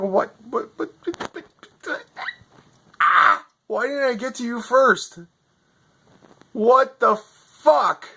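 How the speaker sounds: high, loud repeated disbelief; stunned disbelief. Retold or imitated. Learning the American tech fixed it instantly, stunned and outraged. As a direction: sputter at how easy the fix was.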